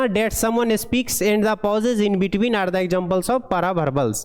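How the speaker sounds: slow, even dictation of an English passage; deliberate read-aloud pace; slow textbook reading. Acted. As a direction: read each word out slowly for the class. Reads English text aloud slowly.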